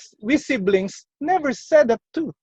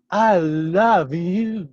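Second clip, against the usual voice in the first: slow tender; 3 semitones lower, much slower than usual. Shown as a demonstration. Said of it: "the tone of your voice matters".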